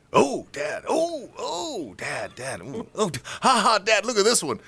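high mock-giggly daughter impression; laughing daughter. Daughter showing Dad social media, laughing. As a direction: imitate an amused kid calling Dad. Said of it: "And she's laughing. She's thinking it's funny".

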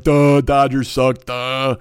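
slow, loud dumb heckler; stupid heckler. Acted. Mocking a dumb heckler at the Dodgers game, slow and dopey. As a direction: drag it out like a dopey loudmouth. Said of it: "like some stupid heckler".

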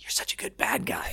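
soft whispered aside; whispered compliment. Retold or imitated. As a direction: hush it to a castmate between takes. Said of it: "Tommy's like".

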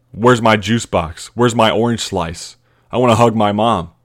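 playing the spoiled little kid after the win; whiny kid. Mock little kid asking for juice box and mom. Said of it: "real life Disney moment".

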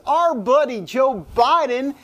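put-on lightly slipping into a Southern accent; a hint of mock Southern orator, punching the name. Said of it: "I don't know why I had a southern accent there".

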